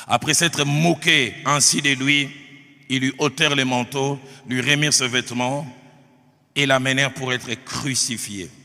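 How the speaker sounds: emphatic, deliberate pulpit reading; Scripture reading. Acted. Preacher reading the Passion to his congregation, emphatic Scripture reading. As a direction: read it out firmly to the congregation.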